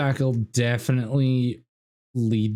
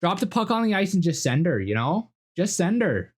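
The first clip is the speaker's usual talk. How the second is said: higher-pitched Albertan redneck caricature; Albertan redneck accent; 7 semitones higher than usual. Acted. Streamer shows studio the requested role, Albertan redneck accent. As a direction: put on a rural Albertan accent. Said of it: "the redneck dude going".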